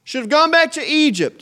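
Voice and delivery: very high, loud mocking whine; mock whining crowd. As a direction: wail it like the grumblers. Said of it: "they said".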